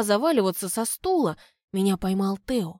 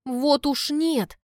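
objecting; 6 semitones higher, much slower than usual. A narrator's reading. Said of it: "возражаю я".

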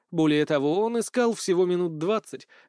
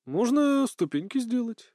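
slow, higher-pitched idle question; lazy drawl; 7 semitones higher, slower than usual. A narrator's reading. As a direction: drag it out lazily. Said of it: "лениво процедил Мейкел".

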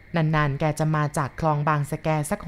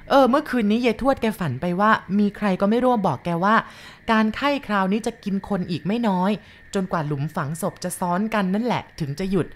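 eerie tale; 3 semitones higher than usual. Acted. Sorn tells grandma of the ominous dream. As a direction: tell the omen with dread.

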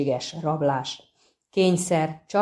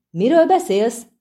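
startled; 6 semitones higher, 6 dB louder than usual. A narrator's reading. Startled halfling asks what is meant.

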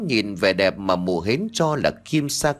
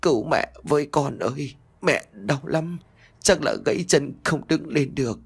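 weak pleading; 2 semitones higher than usual. Acted. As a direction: plead weakly, hurting. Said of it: "cố van xin đứa con dâu".

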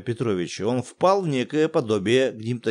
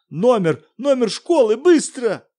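higher, loud, hurried demand; urgent shout; 10 semitones higher, 7 dB louder than usual. Acted. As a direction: bark out the demand. Муж требует ответа. (муж кричит на жену)

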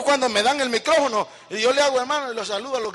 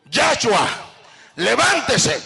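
firm call to wake the son, with authority; commanding call; slower than usual. Retold or imitated. Father ordering son out of bed, authoritative call. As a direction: bark the name, then the order. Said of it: "se le habla con autoridad".

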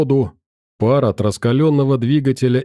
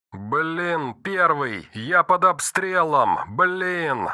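higher, panicked radio yell; panicked under fire; 4 semitones higher, 5 dB quieter, much slower than usual. Acted. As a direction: yell for help under gunfire. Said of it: "заорал четвёртый".

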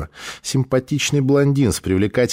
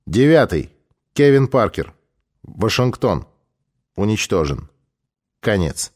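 official dispatch, item by item; formal secret-cable reading, falling at the close; telegram readout. Acted. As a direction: announce each heading separately, with pauses.

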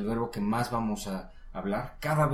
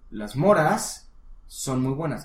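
slow prompt; 3 semitones higher, 6 dB louder, slower than usual. Shown as a demonstration. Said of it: "cómo dirías".

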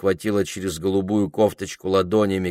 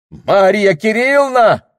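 shouting her name at the top of his voice, high; a desperate, pleading shout of her name; loud cry; 14 semitones higher, 10 dB louder than usual. Acted. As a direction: bellow her name so the cat jumps. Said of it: "крикнул он так громко".

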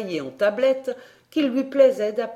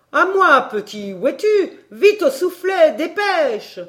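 higher, louder urgent calling out; 8 semitones higher, 6 dB louder than usual. A narrator's reading. Professor ordering the boy to the bellows, urgent shout. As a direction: summon the boy to the bellows, fast.

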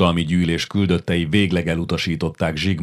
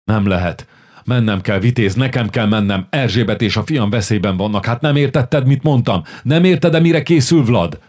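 urgent pleading; 4 semitones higher, 5 dB louder than usual. Acted. Hunyadi pleads urgently, rising.

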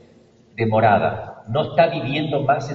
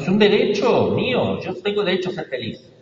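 demanding complainer; 6 semitones higher than usual. Retold or imitated. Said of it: "Le reclamamos a Dios".

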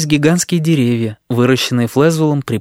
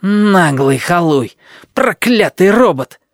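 slow, louder furious cursing, rising high; 6 semitones higher, 3 dB louder, slower than usual. Acted. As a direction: swear at the robot. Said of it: "чертыхнулся Флезвелл".

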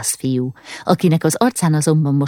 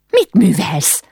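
higher-pitched cry of protest; alarmed cry; 5 semitones higher, 3 dB louder, slower than usual. A narrator's reading. Ilka to the stable boy at her father's throat, alarmed cry. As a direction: call out sharply to stop him, voice raised in pitch. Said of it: "kiáltott rá Ilka".

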